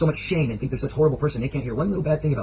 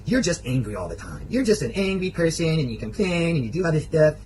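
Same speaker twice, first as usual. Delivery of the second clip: pointed, higher-pitched mimicked griping; mock exasperated partner; imitated nagging complaint; 4 semitones higher, 3 dB louder than usual. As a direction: act out her worried-sounding reproach. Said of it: "she started saying".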